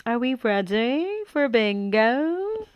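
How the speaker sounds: slow drawn-out caller voice; bingo caller. Pretend. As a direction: stretch it like a game-show caller. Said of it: "I was born to be a bingo caller".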